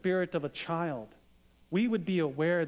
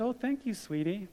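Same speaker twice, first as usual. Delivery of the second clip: tender thanks; 5 semitones higher than usual. Retold or imitated. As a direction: say it moved and gentle. Replying to daughter tenderly.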